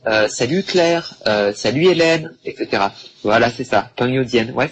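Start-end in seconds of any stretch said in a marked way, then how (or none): 0.1-2.3 higher, friendly calls of salut; casual greeting to a friend. Pretend. Teacher acting out greeting friends casually. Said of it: "je vais lui dire ah salut".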